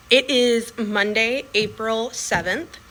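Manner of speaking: slow careful date; slowly, getting the date right. Real, not acted. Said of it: "I almost said".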